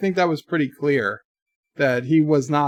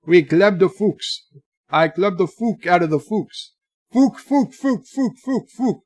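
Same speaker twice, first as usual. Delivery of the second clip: hammed-up Canadian French accent, pitched up; put-on Canadian; 4 semitones higher than usual. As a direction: play a cartoonish Canadian accent. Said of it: "That's not Canadian".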